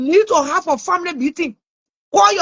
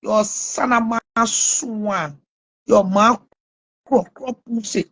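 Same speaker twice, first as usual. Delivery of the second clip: lower, mock-encouraging tone; encouragement voice; 5 semitones lower, slower than usual. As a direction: coax it out like fake encouragement, lower and slow at first. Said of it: "In my encouragement voice".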